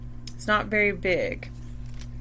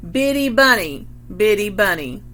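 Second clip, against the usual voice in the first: louder parrot squawk; 4 dB louder than usual. Shown as a demonstration. Roger parrots the mom for the children, louder squawk. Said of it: "And Roger says".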